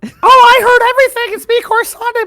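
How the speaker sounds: high-pitched, quick character voice; Corisande. Acted. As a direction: pipe up high and excitedly. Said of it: "My voice went up high".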